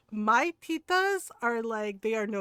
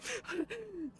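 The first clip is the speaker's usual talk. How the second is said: quick mock sniffles; imitated sniffling; 5 semitones higher, 12 dB quieter than usual. Doctor walking off after the scolding, imitated sniffles. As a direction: sniffle like someone trying not to cry. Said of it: "We hear sniffles from him".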